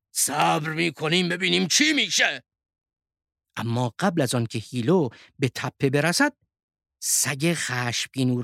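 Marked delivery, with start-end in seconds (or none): 0.1-2.4 put-on steady old wolf, slightly raised pitch; calming old wolf. A narrator's reading. Old wolf calms the young one, steady reassuring voice. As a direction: settle the youngster down. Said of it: "آرامش کرد و گفت".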